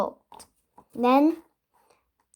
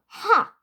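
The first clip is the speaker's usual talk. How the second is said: scornful ha; 9 semitones higher than usual. A narrator's reading. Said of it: "snored the tallest goblin".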